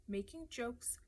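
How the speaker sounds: soft, whispered reproach; breathed. A narrator's reading. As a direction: let it out on a breath, barely voiced. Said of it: "she breathed".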